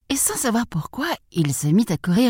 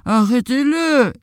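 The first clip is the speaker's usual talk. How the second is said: higher, drawn-out piglet call; piglet's cry; 8 semitones higher, slower than usual. A narrator's reading. Little pig cries to the farmer for help, high call. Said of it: "cria le petit cochon".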